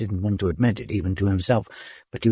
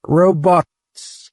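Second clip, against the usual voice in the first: much higher, shrill urgent yell; shrill shout; 9 semitones higher, 4 dB louder than usual. A narrator's reading. Dodath shouting urgently at the robots. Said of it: "he shouted as loudly as could".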